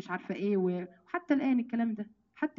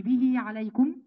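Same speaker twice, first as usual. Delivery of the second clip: به عليكم picked out, ending on a rise; contrasting به عليكم; slower than usual. Shown as a demonstration. Teacher contrasts the unique wording for students, به عليكم lifted at the end. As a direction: lift the end of عليكم to mark the difference. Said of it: "دي منفردة".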